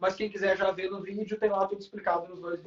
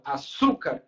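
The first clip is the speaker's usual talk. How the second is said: "açúcar" with a strong middle syllable çú; stress on SU; 6 semitones lower, slower than usual. Shown as a demonstration. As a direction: make the çú the strongest part of "açúcar". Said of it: "é a mais forte".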